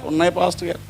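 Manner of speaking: subdued little reply to the pastor; crying boy, imitated. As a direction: answer softly as an upset child would. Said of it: "ఒక పిల్లోడు ఏడుస్తున్నాడు".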